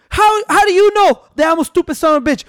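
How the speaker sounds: high-pitched mock indignation; Stone Cold Steve Austin mad. Imitating the wrestler challenging the manager, high indignant voice. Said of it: "Stone Cold got so mad".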